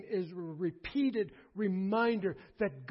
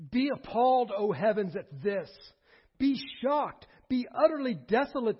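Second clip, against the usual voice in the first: raised, emphatic scripture reading; rebuke; 3 semitones higher, 3 dB louder than usual. Acted. God rebuking his people before the heavens, emphatic declaiming. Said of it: "This is a rebuke. God is speaking".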